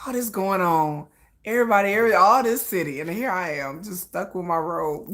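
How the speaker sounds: pouty imitation. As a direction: sulk a little, as if left out. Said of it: "he was so pouty".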